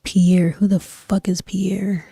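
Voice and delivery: ordinary delivery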